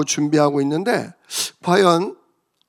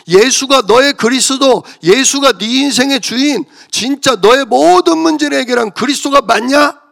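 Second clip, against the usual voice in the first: rising, much higher and louder divine challenge, then hushed verdict; voice of God; 6 semitones higher, 5 dB louder than usual. Retold or imitated. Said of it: "하나님 말씀으로 답 주시는 거예요".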